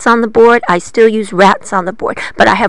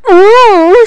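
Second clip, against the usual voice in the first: high, louder squealing rat; 11 semitones higher, 7 dB louder than usual. A narrator's reading. Poked rat squeals at the witch. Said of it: "said a rat".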